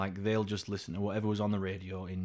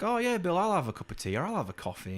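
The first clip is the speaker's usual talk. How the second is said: put-on boyfriend's eager answer; 8 semitones higher than usual. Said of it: "sister's boyfriend to be like".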